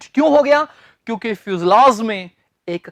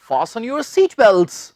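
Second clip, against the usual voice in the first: mild cabin announcement; much slower than usual. Retold or imitated. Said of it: "तो वो कहेंगे".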